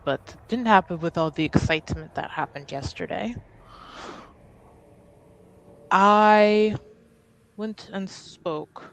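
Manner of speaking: careful, halting confession with long pauses; lightly voiced, tentative niece to her uncle; hesitant Ade in character.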